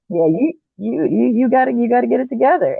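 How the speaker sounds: quoting a demand. Retold or imitated. Quoting husband's demand again.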